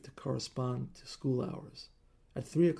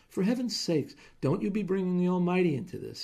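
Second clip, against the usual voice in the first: snapped; 6 semitones higher, 5 dB louder than usual. Acted. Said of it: "he snapped".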